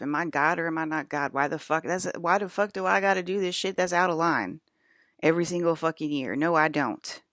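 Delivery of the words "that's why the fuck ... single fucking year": getting angry. Real, not acted. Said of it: "I'm getting angry".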